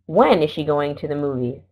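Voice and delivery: demonstrated question tune with emphasis on "When"; "When" peaks, then a dip toward "movies"; question inflection. Shown as a demonstration. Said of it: "It goes down and then up in the question".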